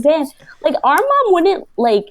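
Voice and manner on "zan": imitated fed-up mother's call; mildly cross mock call; mom getting mad. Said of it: "she starts getting mad".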